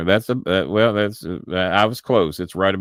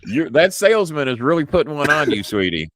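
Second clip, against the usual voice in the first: higher teasing sweetie; mock patronizing; 8 semitones higher, 5 dB louder than usual. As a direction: needle her gently.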